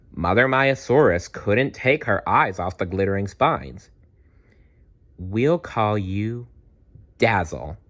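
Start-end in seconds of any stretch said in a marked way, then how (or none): 5.2-7.8 softly. Acted. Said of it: "she said softly".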